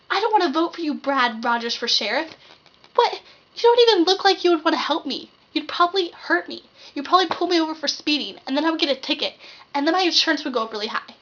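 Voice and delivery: mock outraged rant; indignant rant. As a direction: rant at the canvasser. Rant at sheriff candidate.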